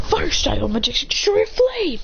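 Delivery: play-acted anime battle cry; attack call. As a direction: call out the fire jutsu. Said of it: "Sasuke goes".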